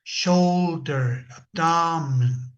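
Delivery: "shoulder" and "abdomen" with the stress up front; "abdomen" slowed, stress on "ab"; first-syllable stress. Shown as a demonstration. Profesor mostrando el acento en la primera sílaba. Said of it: "Generalmente se tiene antes".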